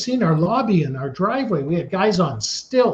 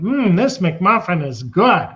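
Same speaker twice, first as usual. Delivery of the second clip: mock ad delight. Parodies hokey commercial dialogue.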